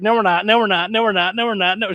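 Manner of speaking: mock stubborn Von; stubborn refusal. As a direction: dig in and refuse over and over. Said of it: "He was like".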